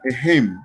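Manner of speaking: "ejem" cut off right after its stressed JEM; stressed syllable demo. Shown as a demonstration. Teacher showing where ejemplo takes its stress, stressed syllable demo. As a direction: stress the second syllable of "ejem" and stop there. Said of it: "la fuerza tónica va en".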